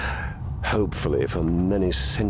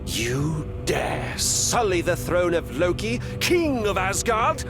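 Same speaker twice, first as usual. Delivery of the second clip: indignant royal challenge; 3 semitones higher than usual. Acted. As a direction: demand it as an affronted king. King challenges an intruder.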